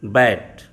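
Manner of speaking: बैट with a short flat ae vowel; English bat. Shown as a demonstration. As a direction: model बैट clearly. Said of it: "बी ए टी".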